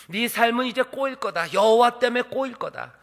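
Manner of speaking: high, loud spiteful curse; cursing. Acted. Balak cursing Balaam's life, angry and loud. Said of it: "저주하는 말이에요".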